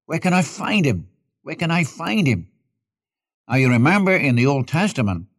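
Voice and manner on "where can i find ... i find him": higher-pitched, lightly acted plea; mild searching cry. Preacher voicing the cry of hearts through centuries, mild higher plea. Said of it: "This is the cry of hearts".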